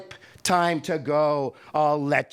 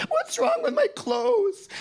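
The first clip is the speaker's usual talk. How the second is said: much higher, tearful wail; crying boy; 4 dB louder than usual. Retold or imitated. Boy defending his jeans to the teacher, crying. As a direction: protest through tears.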